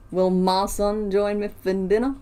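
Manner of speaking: a light, slowed mock Southern US accent; Deep South accent. Streamer reads a chat pun aloud in a mock Southern US accent. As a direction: read the chat line in a hinted Deep South drawl. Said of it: "so deep south to me".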